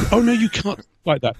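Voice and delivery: high, prissy mock scold; mocking prim objector. Mocking critics who tell him he can't speak so, in a high prissy voice. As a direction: send up the pearl-clutching critics.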